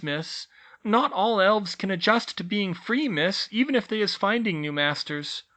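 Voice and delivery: high, earnest elf explaining; house-elf voice. A narrator's reading. Elf teacher explains at length.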